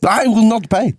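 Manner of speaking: put-on high Dutch-accented drunk voice; hammed-up drunk Dutchman begging for cream. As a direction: Dutch accent, pleading and tipsy. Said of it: "A drunk Dutchman".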